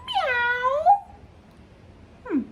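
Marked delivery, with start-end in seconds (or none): 0.1-0.8 high, drawn-out meow; storybook dog meowing in a high voice; cat meow. A narrator's reading. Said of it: "And George went".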